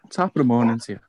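lightly put-on Irish accent. Teasing mates about Ireland in a put-on Irish accent. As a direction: have a go at a stock Irish greeting accent. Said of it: "You like your accents".

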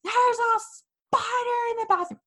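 put-on telling her boyfriend through real-sounding sobs; in tears. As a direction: wail it out in tears. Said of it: "in tears".

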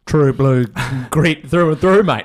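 hammed-up true blue Aussie, slow; laying on the ocker accent; broad Australian accent. Mock Aussie toughness bit.

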